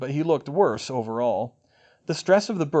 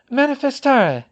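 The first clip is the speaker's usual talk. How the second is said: spell incantation; 12 semitones higher, 9 dB louder than usual. A narrator's reading. Casting spell.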